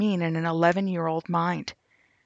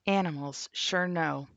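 whispering; 5 dB quieter than usual. Real, not acted. Quiet aside while reading posts.

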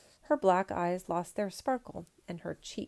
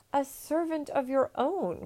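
higher, louder eager offer; cried; 7 semitones higher, 3 dB louder than usual. Acted. Emperor bargains with Pang Lo, higher eager cry. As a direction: push one more offer. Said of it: "cried the emperor".

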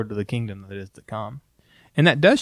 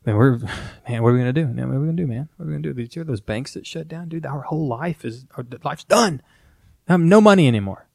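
mock alarmist panic; faster than usual. Mocking an alarmist friend panicking over bank news. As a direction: play the frantic alarmist friend. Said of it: "not being like".

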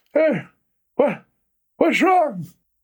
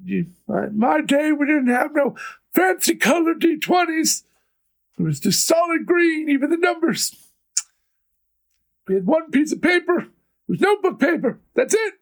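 back in my day rant; 3 semitones higher than usual. Acted. Aged sixty years, old man rant.

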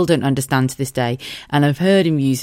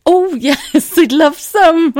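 high laughing delight; 7 dB louder, much slower than usual. Retold or imitated. Mike accepting the sauce, high laughing delight. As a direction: squeal it through laughter. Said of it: "He went".

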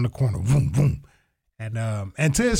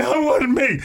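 mock wailing; 11 semitones higher, slower than usual. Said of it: "I wasn't crying like".

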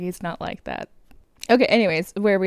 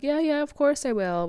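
mock villain reassurance; 8 semitones higher than usual. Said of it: "he's like".

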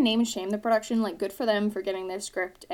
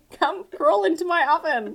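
cackling witch, laughing; 6 semitones higher, 8 dB louder than usual. Pretend. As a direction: lure them like a fairytale witch. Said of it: "I was being like Hansel and Gretel".

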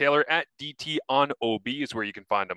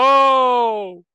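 high, loud drawn-out gasp, drifting off; awed broadcaster trailing away; Rod Smith's fading oh; 13 semitones higher, 11 dB louder than usual. Retold or imitated. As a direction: pull away from the mic as you exhale it. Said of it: "fades away from the microphone".

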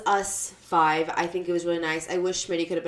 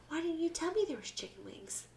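mock whine; 8 semitones higher, 14 dB quieter than usual. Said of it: "Fireball walks upstairs".

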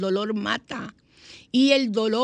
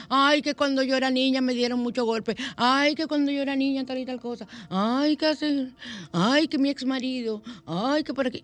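mock whining; 4 semitones higher than usual. Mocks people who live in the past.

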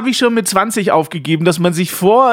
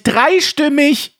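„Dreistimmig!“ langsam gedehnt und höher, clownesk; albern wie ein Clown; 6 semitones higher, much slower than usual. Pretend. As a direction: das Wort albern in die Länge ziehen. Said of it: "Er hat mehrere Fleischtröten im Mund". (alberner Clown)

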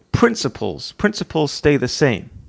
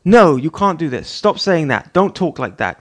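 sharp raised scolding, higher and louder; scolding the kids; 4 semitones higher, 5 dB louder than usual. Retold or imitated. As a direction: tell the children off, stop them cold. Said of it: "I go".

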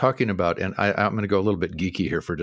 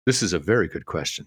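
completely deadpan; 4 semitones lower than usual. Retold or imitated. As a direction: say it without a flicker of emotion. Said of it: "he is completely deadpan".

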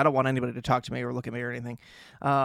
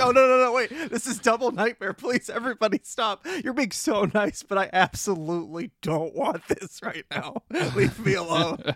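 mock panicked protest; 7 semitones higher than usual. Begging cousins to stop hugging him, mock panic. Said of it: "I'm like".

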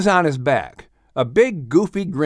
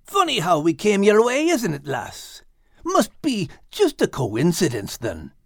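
sarcastic; 6 semitones higher than usual. Acted. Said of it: "in a sarcastic tone and a grin".

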